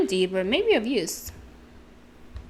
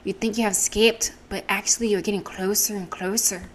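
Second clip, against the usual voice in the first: put-on Irish accent. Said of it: "Wasn't the best accent".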